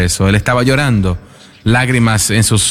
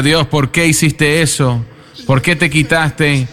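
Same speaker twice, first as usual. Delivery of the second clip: a touch of weeping, voice lifted higher; sobbing plea to God, only lightly played; retold grieving cry; 3 semitones higher than usual. Grieving father cries to God over his son's coffin, mildly tearful. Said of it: "llorando, llorando, llorando".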